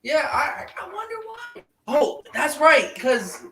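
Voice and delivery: high mock-innocent wondering; playful sarcasm; sarcastic. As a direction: feign innocence, squeaky and high. Sarcastic after flamethrower story.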